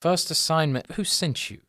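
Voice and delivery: quietly wary little academic; puzzled gnome professor. Acted. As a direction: query newcomers in a light professor voice. Gnome professor questions the newcomers.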